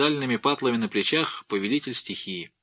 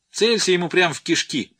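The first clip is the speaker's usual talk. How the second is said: выше и громче, с азартом подзуживая; толпа подначивает мальчишку выстрелить, с азартным криком; подзадоривающий крик толпы; 8 semitones higher, 4 dB louder than usual. A narrator's reading. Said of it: "подзуживает толпа". (подзуживающий выкрик)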